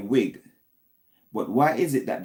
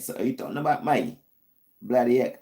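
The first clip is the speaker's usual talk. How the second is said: mock British accent; 2 semitones higher than usual. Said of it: "I'm trying to talk British language".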